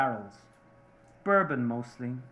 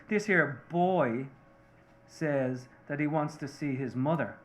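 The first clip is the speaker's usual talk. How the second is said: slow, deliberate and pushy; hammered out word by word; real insistent boss. Retold or imitated. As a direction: spell it out like a boss who won't be refused. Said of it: "Real insistent, the boss, he's real insistent".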